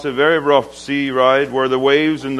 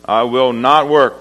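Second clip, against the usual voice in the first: louder, raised defiant refusal; retold defiant yell; 2 semitones higher, 4 dB louder than usual. Slave refusing the crowd at auction, retold defiant yell. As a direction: call it out firmly, short of a full yell. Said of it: "the slave yelled out to the crowd".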